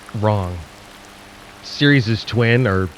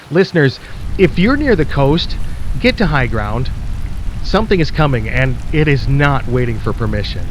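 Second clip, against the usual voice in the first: urgent warning. Acted. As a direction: push it out fast, they must move now. Host urgently warns listeners to flee.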